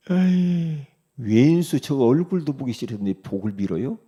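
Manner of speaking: mock scoffing. Preacher mimics a believer who hates his enemy, scoffing. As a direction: scoff like you can't stand the enemy.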